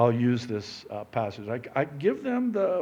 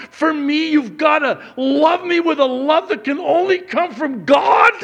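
high, loud, hurt wife's outburst; 12 semitones higher, 8 dB louder than usual. Retold or imitated. Wife hurt by her husband's words, high, loud outburst. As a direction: play the wounded wife, pitched high and loud. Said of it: "And she's all hurt".

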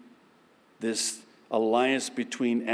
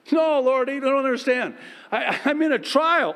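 higher, louder whiny protest with a laugh; whining believer; 10 semitones higher, 4 dB louder than usual. Acted. Believer protesting to God, high and whiny. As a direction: complain to God like a stuck child.

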